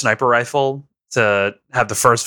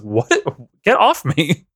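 Otacon; 3 semitones higher, slower than usual. Acted. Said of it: "Otacon's like".

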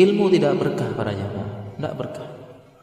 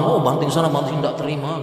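mock tantrum; 4 semitones higher than usual. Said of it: "ngamuk-ngamuk, meraung-raung".

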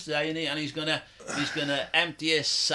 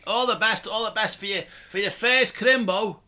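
thick Scouse, pitched up; tipsy Scouse well-wishing, raised pitch; dead Scouse; 5 semitones higher, 4 dB louder than usual. Real, not acted. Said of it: "Why am I talking dead scouse?".

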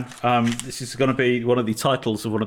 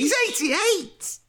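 mock disbelief; much slower than usual. Mock incredulous repetition.

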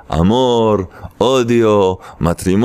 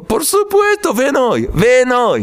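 eager invitation; 11 semitones higher than usual. Acted. Eager friend invites him over.

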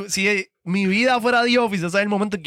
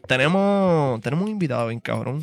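show host intro. Acted. Host introduces King Impact to the audience, hyped.

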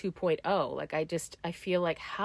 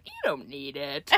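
sneaky ego; 5 semitones lower, 5 dB quieter than usual. Retold or imitated. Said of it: "my ego being like".

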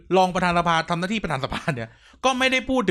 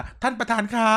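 high, slow, sugary "ท่านประธานคะ"; mimicking Pi Ae's sweet address; 6 semitones higher than usual. Podcaster mocking the MP's fawning address to the chair, high and drawn out. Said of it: "ยกเว้นคำว่า".

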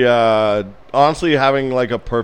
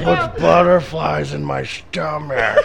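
put-on African accent; 4 semitones higher, 3 dB louder, slower than usual. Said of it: "That's really good".

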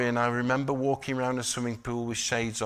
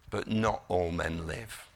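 William Wallace; 4 semitones lower, slower than usual. Retold or imitated. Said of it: "I can't do a Scottish voice".

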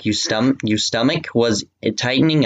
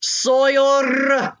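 mock cry. Fanfic climax cry.

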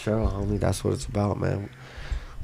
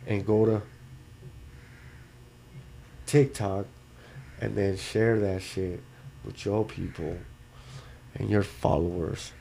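stoned; 3 semitones lower, 8 dB quieter than usual. Real, not acted. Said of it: "I'm just a little stoned".

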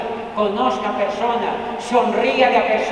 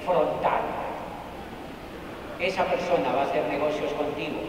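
confiding; 6 semitones lower, 8 dB quieter than usual. Acted. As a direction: lean in and share the secret softly. Confiding key message.

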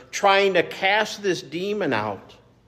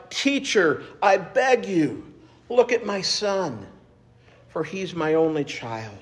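a father begging, voice pitched up then sinking; desperate plea; 3 semitones higher than usual. Acted. Pastor voicing a father's desperate plea for his son, mildly pleading. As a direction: plead with the teacher for your only son. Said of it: "Can you hear the desperation in his voice?".

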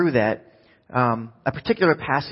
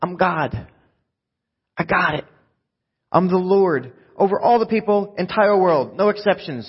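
raised, emphatic voice of an all-powerful God; confident God; 5 semitones higher than usual. Acted. Preacher voicing God's reassurance to Jeremiah, raised and emphatic. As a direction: declare each claim like nothing can stop you. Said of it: "God is saying".

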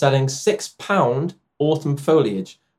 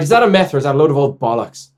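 attempted Irish accent; faster than usual. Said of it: "help you with the Irish accent".

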